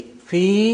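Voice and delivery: "fi" with a drawn-out ee; long vowel in FI. Shown as a demonstration. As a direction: hold the vowel of "fi" for two beats. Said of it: "is two kasras".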